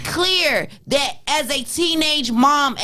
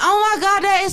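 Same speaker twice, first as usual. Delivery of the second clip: put-on excited kid; 10 semitones higher than usual. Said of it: "she was like".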